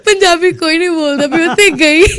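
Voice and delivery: real laughter through the words; laughing as she echoes the line. Real, not acted. Echoing the listener, both laughing. (ਹੱਸਦੇ ਹੋਏ ਬੋਲਣਾ)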